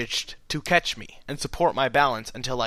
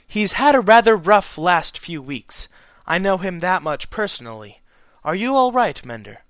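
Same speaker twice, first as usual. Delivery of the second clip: gentle; 6 semitones higher, 6 dB louder than usual. A narrator's reading. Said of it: "she asked gently".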